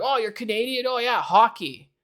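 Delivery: parroting someone's instant hockey assumption; mock fan. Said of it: "people will be like".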